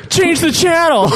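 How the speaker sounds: high, mock-deadpan henchman voice; mock henchman line. Quoting the Russian henchman's one-liner, put-on voice. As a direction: toss off the quip in a put-on voice.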